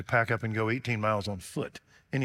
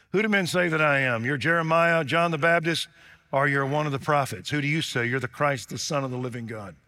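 higher, louder, fast questions; Jesus questioning; 3 semitones higher, 4 dB louder, faster than usual. Acted. Preacher voicing Jesus asking the disciples, fast excited questions. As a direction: rattle off the answers eagerly.

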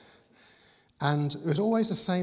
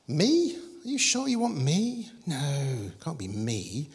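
acted disbelief; slower than usual. Moses answering God's call to face Pharaoh, acted disbelief. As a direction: play a baffled reluctant Moses.

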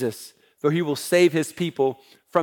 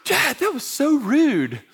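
daughters scolding; 9 semitones higher, slower than usual. Retold or imitated. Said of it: "My girls immediately".

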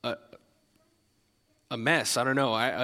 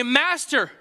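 emphatic cry; 8 semitones higher, 4 dB louder than usual. A narrator's reading.

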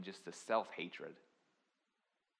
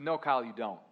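intense coach voice; 7 dB louder than usual. Retold or imitated. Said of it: "kind of an intense voice".

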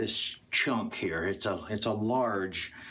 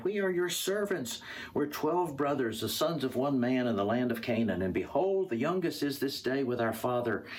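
higher-pitched plea, easing down; earnest pleading; 4 semitones higher than usual. Acted. Brothers explain their family to their accuser, pleading. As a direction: start high and insistent, then settle.

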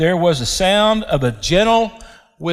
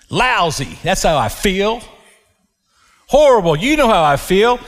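complaining Elijah; 3 semitones higher than usual. Acted.

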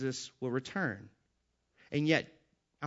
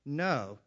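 "no" stressed with a firm fall; a decisive, weighted "no"; emphatic no. Acted. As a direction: deliver "no" as a final answer. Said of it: "to be an emphatic no".

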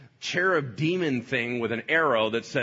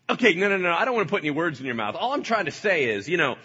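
mock innocent; 6 semitones higher, 6 dB louder, faster than usual. Satan backpedals innocently.

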